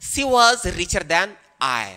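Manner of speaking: slow, careful model sentence; slow correct example. Shown as a demonstration. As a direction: dictate the right version slowly. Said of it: "यहाँ पर correct जो होगा वो I होगा". (सही वाक्य धीरे-धीरे)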